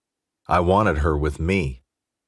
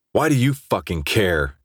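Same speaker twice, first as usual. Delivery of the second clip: angry; 3 semitones higher than usual. Acted. Drunk quarrel with friend.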